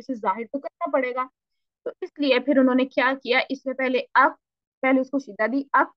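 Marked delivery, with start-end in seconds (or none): 5.7-5.9 अक shut hard, then a puff of air; stopped then breathy release. Shown as a demonstration. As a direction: close अक, then let breath out. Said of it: "फिर उसमें हमस दे दिया". (अक में शिद्दा फिर हम्स)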